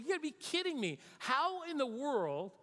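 ticked off. Acted. King venting to his officers about failed ambushes, mock ticked off. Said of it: "gets ticked off".

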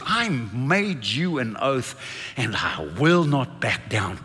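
slow, low, resolute; solemn vow. Acted. God making an oath to the fearful, solemn vow. Voicing God's sworn promise.

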